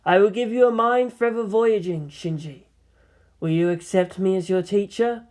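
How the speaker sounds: gentle female seer, pitch lifted; soft, inviting mentor's voice; spoke softly. Acted. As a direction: offer it tenderly to a sleepy pupil. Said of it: "She turned to him and spoke softly".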